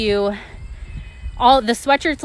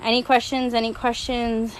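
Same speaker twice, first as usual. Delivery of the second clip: winded, breathy asking; out of breath. Real, not acted. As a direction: ask while catching your breath. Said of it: "I'm out of breath".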